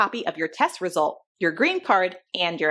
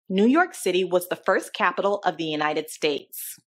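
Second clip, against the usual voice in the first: clear, measured dictation pace; dictating. Shown as a demonstration. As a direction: read it out for someone to write down. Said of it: "listen carefully to this sentence that I'll say".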